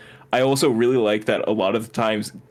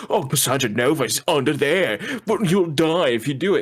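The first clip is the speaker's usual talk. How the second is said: put-on higher character voice; Paradox; 4 semitones higher than usual. Paradox warning the heroes off, acted higher voice. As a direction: give the warning in a mannered, put-on voice. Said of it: "And Paradox is like".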